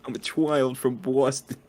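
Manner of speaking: put-on silly Boston child, vowels twisted; mock Boston accent. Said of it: "sort of Bostonian accent".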